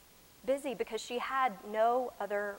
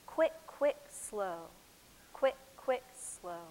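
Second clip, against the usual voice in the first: put-on broad singsong kids theatre; 3 semitones lower, slower than usual. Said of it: "just whisper to yourself under your breath the names of the steps".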